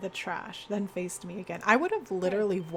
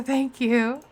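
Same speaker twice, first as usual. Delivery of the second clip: laughing thanks; 5 semitones higher, 9 dB louder than usual. Real, not acted. Laughing at own bit.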